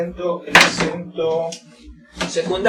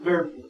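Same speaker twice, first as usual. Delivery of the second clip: purple with a drawn-out, stressed PUR; first-syllable stress. Shown as a demonstration. Teacher models lengthened word, stress on PUR in purple. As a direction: put the weight on PUR in purple, falling end. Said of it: "mayor fuerza de voz aquí".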